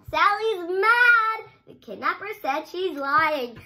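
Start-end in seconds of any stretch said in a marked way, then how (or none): 0.1-1.5 accusing. Acted. Kidnapper accusing Sally.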